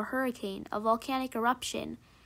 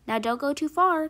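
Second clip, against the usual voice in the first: higher, louder call across the distance; teacher calling after; 4 semitones higher, 6 dB louder than usual. A narrator's reading. The teacher calls after the children running outside, raised voice. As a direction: send the warning after running kids. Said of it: "called the teacher after them".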